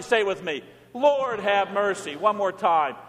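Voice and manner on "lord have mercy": slow, drawn-out liturgical plea; congregational plea. Shown as a demonstration. Preacher leading the church's cry, slow pleading. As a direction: lead the congregation slowly in prayer.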